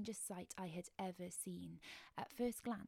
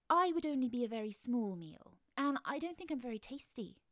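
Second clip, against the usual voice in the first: loud, higher, anxious bargaining; nervous plea; 4 semitones higher, 8 dB louder than usual. Acted. Child pleading with the crab man not to be eaten, scared and loud. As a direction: talk your way out, scared and loud.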